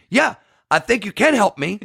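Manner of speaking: high, laughing mock of an upset husband. Husband on the phone complaining about the picture. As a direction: play the wronged husband, laughing through it. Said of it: "And he goes".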